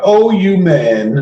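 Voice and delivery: drawn-out teasing mimic; imitating Laura. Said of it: "as you like to say, Laura".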